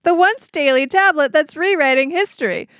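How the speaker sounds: slick TV drug commercial announcer; pharmaceutical ad voice. Pretend. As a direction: sell it like a pharma ad. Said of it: "I'm gonna do my pharmaceutical ad voice".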